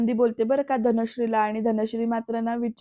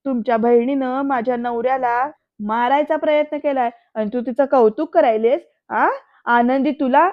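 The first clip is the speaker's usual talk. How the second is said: louder, acted outrage; indignant accusation; 5 dB louder than usual. Wife accusing the sisters over her husband, indignant. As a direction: build to a loud, affronted question.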